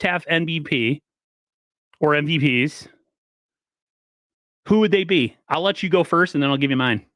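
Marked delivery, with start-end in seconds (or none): none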